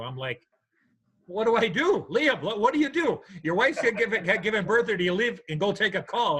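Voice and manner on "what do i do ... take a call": high, frantic rush of questions; panicked disbelief. Retold or imitated. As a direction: blurt it out in a panic. Retelling panic at being called away.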